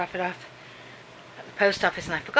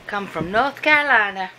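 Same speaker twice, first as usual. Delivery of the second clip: mock Southern accent; 5 dB louder than usual. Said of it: "I don't know what accent that was".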